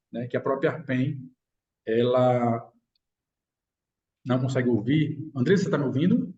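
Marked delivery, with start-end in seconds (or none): 1.8-5.2 choppy audio cutting out; breaking up over a bad connection; buffering stutter. Real, not acted. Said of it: "sua voz às vezes tá picotando". (voz picotando na chamada)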